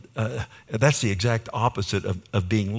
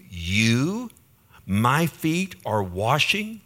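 incredulous Peter; much slower than usual. Retold or imitated. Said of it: "it would say this".

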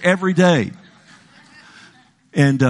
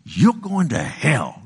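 put-on kids taunting; 5 semitones higher than usual. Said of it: "kids would hang out".

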